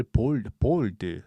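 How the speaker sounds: bold with pure o, like 'bol-deu'; Koreanized mispronunciation. Shown as a demonstration. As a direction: imitate learners saying bold without the glide. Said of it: "이렇게 발음을 한단 말이에요".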